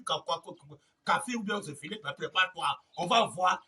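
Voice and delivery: ordinary delivery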